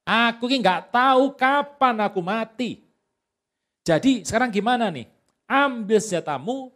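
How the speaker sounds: a hint of a dying old man giving orders; old Isaac speaking. Old Isaac tells his son Esau to go hunt, lightly voiced. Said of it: "Berkatalah Ishak".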